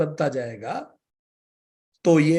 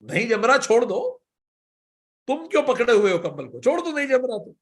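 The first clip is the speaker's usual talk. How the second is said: villagers calling; 6 semitones higher than usual. Retold or imitated. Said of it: "गांव वालों ने बोला".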